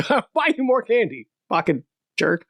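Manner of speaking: dad bossing his kid around, hammed-up; mock dad snapping. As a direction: playfully bark like a greedy dad. Dad voiced trading with kid.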